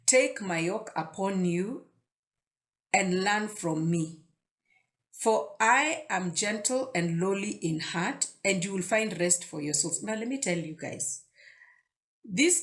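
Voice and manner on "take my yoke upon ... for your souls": slow, deliberate scripture reading; unhurried verse reading; read slowly. Shown as a demonstration. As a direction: take each phrase slowly, letting it land. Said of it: "Let me read it slowly".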